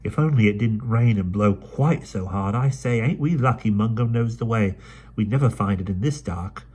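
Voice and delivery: brisk London urchin, chatty; Dido's voice. Acted. Dido speaks in the story.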